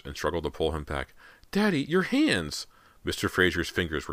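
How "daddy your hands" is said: put-on high, drawn-out girl's exclamation; alarmed cry. A narrator's reading. Daughter sees father's bleeding hands, high alarmed cry. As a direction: cry out slowly in horror.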